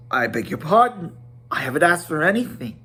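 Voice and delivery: high, fussy, hurried hobbit; flustered Bilbo. Acted. Bilbo flustered before the wizard, high and fussy. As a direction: stammer out a polite excuse.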